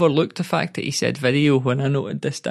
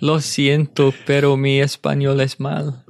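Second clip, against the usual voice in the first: put-on Spanish accent. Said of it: "How's your Spanish accent?".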